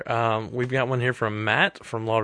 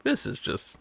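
exasperated whisper; 7 dB quieter, slower than usual. Retold or imitated. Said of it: "We were like".

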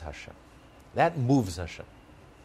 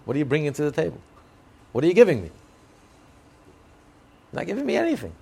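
God demanding; 4 semitones higher, 6 dB louder, much faster than usual. Retold or imitated. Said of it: "Hashem says".

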